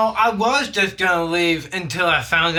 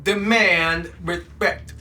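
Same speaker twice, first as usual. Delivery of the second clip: numb tongue; 4 semitones lower than usual. Acted. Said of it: "My tongue is numb".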